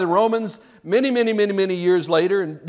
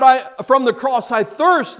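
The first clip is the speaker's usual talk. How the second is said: crying out from the cross; 5 semitones higher, 4 dB louder than usual. Acted. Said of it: "and he cries out".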